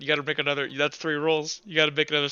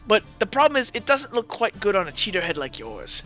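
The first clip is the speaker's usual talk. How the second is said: taunt; 3 semitones higher, 3 dB quieter than usual. Acted. Gambler taunts the suspected cheater.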